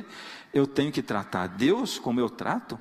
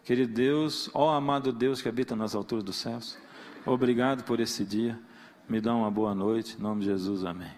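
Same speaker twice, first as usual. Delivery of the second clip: pious prayer; 4 semitones lower than usual. Retold or imitated. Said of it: "se faz oração".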